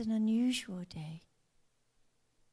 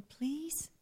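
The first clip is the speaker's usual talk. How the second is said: pleading; 3 semitones higher than usual. Retold or imitated. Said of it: "he was really pleading, going".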